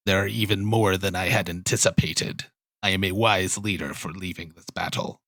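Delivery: lightly voiced self-satisfied reptilian ruler; lizard king. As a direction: talk to yourself as a retreating monster king. Game master voices retreating Lizard King.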